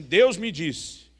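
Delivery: imitating a slow, loud pronouncement; emphatic declaration. Retelling how the pastor announced God's word, slow emphatic declaration. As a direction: declare it slowly and loudly, stretching the words. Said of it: "quando ele dizia assim".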